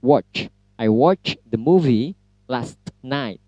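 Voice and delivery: "watch" with a strong final ch; slow model sentence stressing ch in "watch"; teacher's careful example, crisp "watch"; English ch sound. Shown as a demonstration. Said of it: "Misalkan seperti itu".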